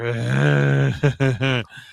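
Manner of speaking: long, loud mock groan of disgust; imitated groan. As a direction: groan as if forced to listen. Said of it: "And you just hear".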